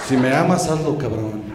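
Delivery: low, heavy God voice, coldly demanding; God demanding proof. Acted. God orders Abraham to sacrifice Isaac, low and menacing. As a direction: lay down the order like a menacing deity. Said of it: "y le dijo".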